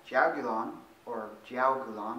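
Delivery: "jiaogulan" said slowly, in an attempted Chinese pronunciation. Shown as a demonstration. Presenter unsure of the exact Chinese name, slow tentative "jiaogulan". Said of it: "that's the Chinese pronunciation".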